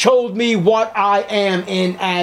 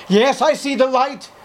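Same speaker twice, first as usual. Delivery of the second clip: eager convert; 7 semitones higher than usual. Acted. Sinner answers the preacher.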